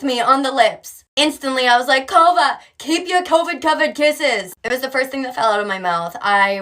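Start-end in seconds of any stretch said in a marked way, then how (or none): 2.1-4.5 startled mom. Retold or imitated. Mom recoiling from kiss.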